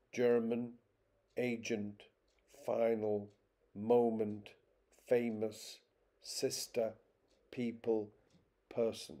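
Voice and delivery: "German, agent, final, moment, famous, sister, people, person", each stressed on the first syllable; spaced word list, strong first syllable and weak second in each, from "German" to "person". Shown as a demonstration. Lecturer listing two-syllable examples, each stressed on the first syllable. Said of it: "more common on the first syllable".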